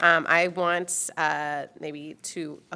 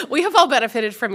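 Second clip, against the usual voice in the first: louder, laughing through the words; emotional, laughing; 7 semitones higher, 8 dB louder than usual. Real, not acted. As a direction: push through tears with a laugh. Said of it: "I'm getting emotional".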